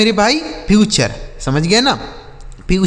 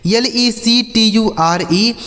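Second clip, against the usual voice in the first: slow letter-by-letter spelling; each letter given its own beat; 3 semitones higher, slower than usual. Shown as a demonstration. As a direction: spell it out slowly for learners. Spells words out for learners.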